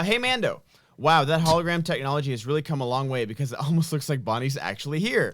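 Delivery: Scarlett Johansson voice. Acted. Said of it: "We'll do Her voice".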